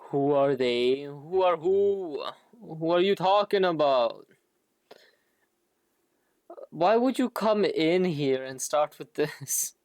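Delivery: ordinary talk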